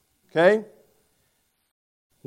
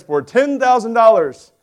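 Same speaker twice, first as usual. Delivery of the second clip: radio host; 5 semitones higher, 4 dB louder than usual. Retold or imitated. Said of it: "the radio host ... he says".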